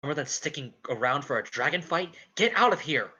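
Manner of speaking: loud, desperate order; urgent shout. Acted. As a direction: drive her away.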